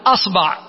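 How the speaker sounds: أصبع said asba', a then a; a on both vowels. Shown as a demonstration. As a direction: demonstrate أصبع as AS-BA'. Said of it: "الهمزة مثلثة".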